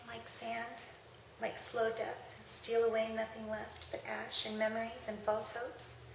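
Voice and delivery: measured, wistful recital falling away at line ends; sad poem reading. Acted. Reading a poem of waiting in vain, wistful recital. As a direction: let each image drift off into a pause.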